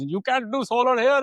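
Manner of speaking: high, put-on voice, loud and dismissive; mock electrician voice. Retelling the electrician's refusal, high and mocking. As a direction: mimic the electrician brushing him off.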